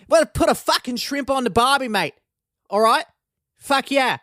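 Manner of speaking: high-pitched, hyped-up mock Australian; excited Australian accent. Podcaster mocking always-excited Australians, high excited Australian accent. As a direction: pitch it way up, an excitable Aussie caricature. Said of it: "They're just always excited about everything".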